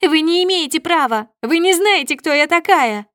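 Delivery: very high, loud entitled screaming; shrill hysterical outrage; hysterical shriek. A narrator's reading. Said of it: "визжит Снежана".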